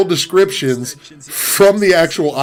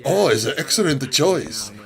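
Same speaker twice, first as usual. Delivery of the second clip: lightly voiced mock Chinese-accented English, reading a long product title; a milder version of the put-on Chinese operator accent; AliExpress operator in broken English. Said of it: "my impression of the operator".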